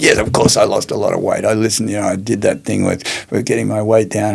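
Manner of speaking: hammed-up exasperated rant, pushed up in pitch; mock raving. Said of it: "partway through a rave".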